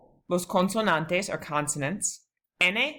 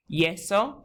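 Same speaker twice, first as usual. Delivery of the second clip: Yeso with YE stressed and lifted; stress on first syllable; 3 semitones higher than usual. Shown as a demonstration. Teacher models a two-syllable word, stress on YE in Yeso. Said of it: "accents on the first".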